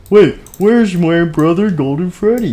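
high-pitched, urgent question; anxious sibling. Acted. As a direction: pipe up looking for a brother. Sibling asks after missing brother.

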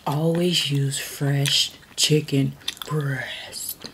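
slow, whispered cooking tip; ASMR whisper. Acted. Mom tries ASMR whisper.

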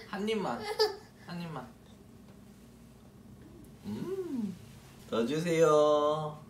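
gentle sing-song coaxing. Real, not acted. Coaxing baby to eat.

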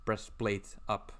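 slow, deliberate "Breastplate up"; slow self-correction after a stumble; careful slow repeat. Real, not acted. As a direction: say "Breastplate up" again slowly and clearly. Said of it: "I can't even talk right now".

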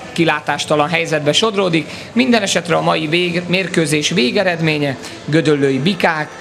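ordinary talk

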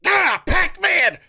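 high, slow hammed-up shriek of joy; mocking the fan's excited cry; mock ecstatic yell. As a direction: parody the fan's squeal. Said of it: "He's over here like this".

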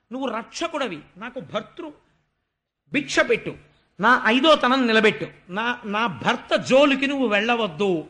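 tearful pleading. Retold or imitated. Vindhyavali at Vishnu's feet begging for her husband, tearful plea. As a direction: beg for your husband's life through tears. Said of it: "పాదముల మీద పడి ఏడ్చింది".

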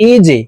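"ইজে" with jim pushed down into a short echo; qalqalah jim. Shown as a demonstration. Teacher drilling qalqalah letters, bouncing jim. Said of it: "নিচের দিকে ধাবিত করে ধাক্কা দিয়ে".

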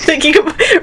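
hurried imitation of a Chinese accent; imitated Chinese accent. Imitating the restaurant worker's goodbye, mock Chinese accent. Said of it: "how they talk so fast".

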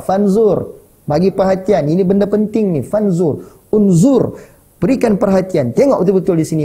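insistent demand. Acted. Father urging his son to pay attention, insistent.

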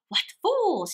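high scornful huff; indignant cry. Acted. Proud rat scoffs at the crowd admiring the elephant, high and huffy. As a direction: scoff at the crowd in hurt pride. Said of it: "he cried".

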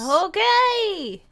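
high, loud huffy snap; huffy okay. Acted. Rebuffed girl huffs at the stranger, loud high. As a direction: throw it back like an offended kid. Huffy reply after being refused.

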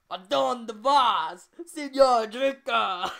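put-on very loud, high, slow New Jersey-accented Spanish; heavy New Jersey accent. A narrator's reading. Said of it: "in her heavy New Jersey accent".

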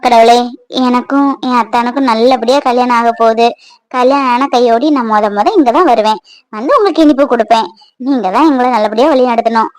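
low, calm devotional voice; sincere, low-pitched prayer; earnest prayer. Acted. Praying privately at the temple.

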